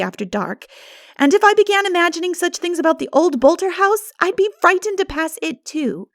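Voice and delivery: lightly voiced girl, a touch indignant; a hint of a cross young girl; Diana's voice. A narrator's reading.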